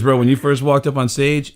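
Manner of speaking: lightly imitated blunt bro; a hint of a put-on friend's voice; Chavo. Friend critiquing comic's bad set, lightly imitated. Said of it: "I'm doing a Chavo impression".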